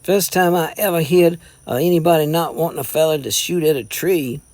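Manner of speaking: lightly voiced mountain boy, a touch amazed; mild backwoods disbelief. A narrator's reading. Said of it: "Jason stared amazed".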